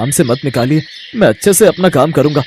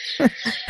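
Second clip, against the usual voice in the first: breathy laugh; 8 semitones higher, 12 dB quieter than usual. Acted. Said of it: "हंसिए मत uncle".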